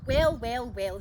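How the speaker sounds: disapproving tut-tut, loud first well; tutting. Acted. Old lady tutting at Jack, loud and disapproving. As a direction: scold with a tut. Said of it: "she tutted".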